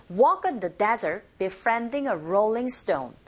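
"Walk" punched, "on the" linked and light; slow model reading, stressing "desert", "befriending", "rolling stone"; stressed content words. Shown as a demonstration. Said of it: "머물지 마시고 빨리 넘어가시면 됩니다". ("Walk", "desert"에 강세, "on the"는 가볍게 넘기며)

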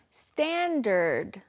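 very slow, drawn-out "standard"; pronunciation model. Shown as a demonstration. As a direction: stretch out both syllables of "standard". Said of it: "Let's practice our pronunciation".

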